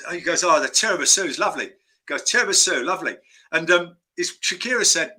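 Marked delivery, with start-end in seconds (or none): 0.4-1.7 lightly imitated film-star greeting; a hint of a famous London actor; Michael Caine. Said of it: "do my Michael Caine impression". 2.2-3.2 lightly imitated film-star greeting; a hint of a famous London actor; Michael Caine. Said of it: "do my Michael Caine impression".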